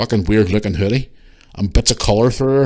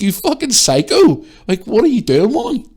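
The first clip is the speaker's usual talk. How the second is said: outraged insult; 11 semitones higher, 4 dB louder than usual. Retold or imitated. Shopper hitting back at the woman, outraged insult. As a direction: lay into her at raised pitch. Retelling an argument in store.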